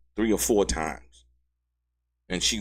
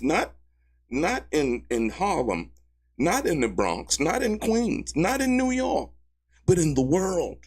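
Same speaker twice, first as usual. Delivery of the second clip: building excitement; 9 semitones higher than usual. Real, not acted. Building mock list.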